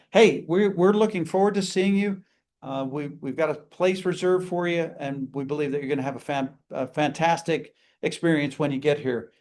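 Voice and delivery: lively, inflected welcome; upbeat greeting. Shown as a demonstration. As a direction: sell it with a bright start. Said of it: "Eighty-six percent is our inflection".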